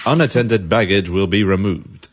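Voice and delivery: Tannoy announcer. Retold or imitated. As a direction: announce it like a station loudspeaker. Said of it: "recreate the voice of the Tannoy man".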